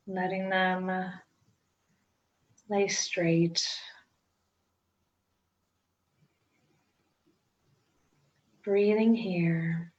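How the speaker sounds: unhurried meditation guide with long pauses; guided meditation. Acted. Teacher guiding listeners into breath-centred meditation, calm guided-meditation delivery. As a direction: ease each instruction out, leaving space to breathe.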